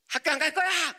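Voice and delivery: put-on high whiny boy voice; son's sulky refusal. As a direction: whine it like a stubborn kid. Son refusing school, voiced by father.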